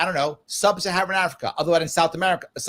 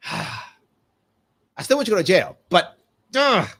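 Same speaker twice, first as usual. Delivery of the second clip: a reluctant official sighing that the rules bind him; grudging American official; 2 semitones higher than usual. Retold or imitated. A mock official sighs and grudgingly admits the constitution binds him. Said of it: "America, they go".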